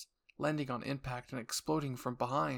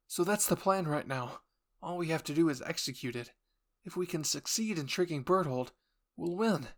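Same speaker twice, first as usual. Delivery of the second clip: Armin explaining; 4 semitones higher, 4 dB louder than usual. Acted.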